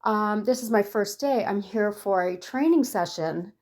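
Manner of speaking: new hire apologizing to the greeter, flustered; flustered apology. Retold or imitated. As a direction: snap back and apologize in a fluster. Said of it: "I snapped out of it and I was like".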